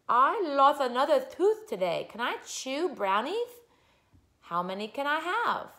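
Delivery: put-on high small-child voice; little six-year-old girl. Six-year-old who lost a tooth, high child voice. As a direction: pitch it up like a little kid.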